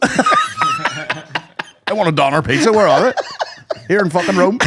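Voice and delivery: high, slow, laughing whine; laughing mock tourist whining for a doner pizza; whiny mock tourist. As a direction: whinge like a spoiled tourist abroad. Mocking Irish tourist in Rome.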